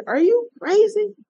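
mock disbelief, pitched high; incredulous supervisor. Supervisor scoffing at injured trooper, mock disbelief. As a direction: play the gruff boss scoffing at her. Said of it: "He said".

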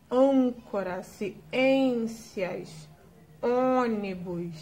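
Âncora, ciências, ônibus with closed nasal vowels; slow closed vowel examples; closed vowel demo. Shown as a demonstration. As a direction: close the â, ê and ô, ônibus drawn out slowly. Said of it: "deixar o som da sílaba mais fechado".

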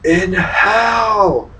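high, loud demon wail; piercing, drawn-out creepy cry; horrifying demonic voice. Retold or imitated. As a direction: screech it like a voice from hell. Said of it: "this horrifying voice was like".

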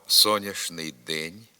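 соняшний день with ш, slowly; spoken pronunciation. Shown as a demonstration. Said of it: "Говоримо".

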